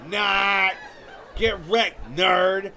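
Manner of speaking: taunting shout. Retold or imitated. Mother taunting her son, mock jeering shout. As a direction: rub it in with a shout. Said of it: "And then she'd go".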